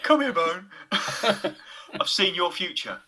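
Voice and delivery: hint of a mystic villain, slow and drawn out; lightly voiced fortune-telling gangster, amused; slow, mock-ominous beckoning; gangster clairvoyant. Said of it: "he'll say things like".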